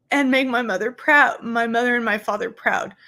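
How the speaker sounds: emotional, breaking at proud. Real, not acted. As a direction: push through the crying. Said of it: "I'm getting emotional".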